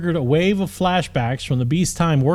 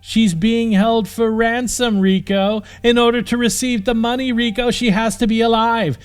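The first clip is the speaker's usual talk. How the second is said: angry; 8 semitones higher, 3 dB louder than usual. Acted. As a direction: lecture him through anger. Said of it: "heaved in anger".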